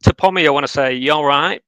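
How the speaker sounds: northern English. Shown as a demonstration. Northern English, greeting Pommy in the chat. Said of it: "that's just my northern, northern English".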